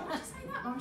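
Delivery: high, soft mock dismay; bewildered daughter. Daughter asking mum why, high soft dismay. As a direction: plead it high and small. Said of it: "and I was like".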